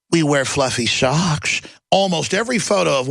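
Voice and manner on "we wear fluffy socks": mock innocent. Mocking tech executives again.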